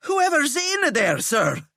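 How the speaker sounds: winded and pleading; panting prefect; high breathless insistence. Acted.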